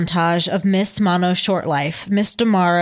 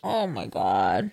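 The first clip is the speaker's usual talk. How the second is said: slow, soft, stunned; reacting to the mother's words, soft and slow; shocked hush; 10 semitones lower, 7 dB quieter, slower than usual. Real, not acted. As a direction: let it fall out slowly in disbelief. Listener shocked by sad quote.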